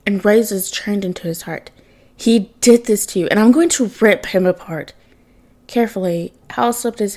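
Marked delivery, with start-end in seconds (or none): 2.2-4.9 louder, menacing vow of revenge; growling threat. Acted. Son vowing revenge on Bruce for his father, furious growl. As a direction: grind it out as a furious promise. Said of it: "voice lowered into a growl".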